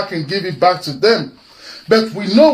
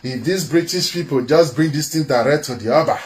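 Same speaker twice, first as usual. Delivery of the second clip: mock governor's thoughts. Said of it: "What did they think?".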